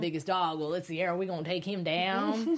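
a mild Southern villain boast; Southern accent. Retold or imitated. Co-host quoting the TV villain in a light Southern accent. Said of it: "I don't know why he got an accent".

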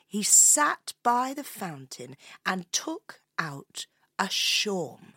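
measured, descriptive storyteller; story narration. A narrator's reading. Introducing the piper to a young listener, storytelling voice. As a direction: unveil the stranger phrase by phrase.

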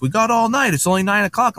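high-pitched imitated complaint; protesting whine. Party guests objecting to music stopping early, mock protest.

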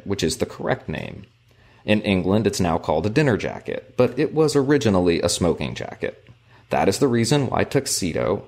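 measured, formal book narration; reading aloud. A narrator's reading. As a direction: read the passage out with careful phrasing. Reads book passage aloud.

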